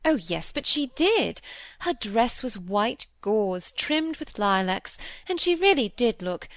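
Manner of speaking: a gently voiced vain stepmother; fussy stepmother. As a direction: chatter fondly, full of herself. Mrs Gibson voiced by reader.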